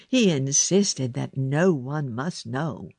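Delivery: usual speaking voice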